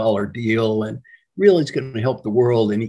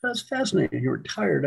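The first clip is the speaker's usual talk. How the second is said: mock fascination; 3 semitones higher, 4 dB quieter than usual. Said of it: "I said".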